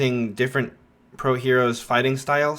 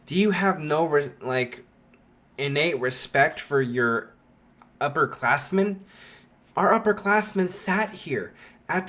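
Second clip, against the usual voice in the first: a mildly stern, preachy class rep rising higher; lecturing; 4 semitones higher than usual. Retold or imitated. Ida scolding Bakugo for feet on desks, mock lecture. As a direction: scold like a mock strict hall monitor. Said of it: "lecturing him".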